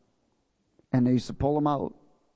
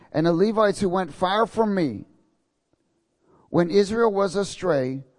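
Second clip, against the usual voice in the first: scripture reading; 5 semitones higher than usual. Acted. Reads verse ten aloud.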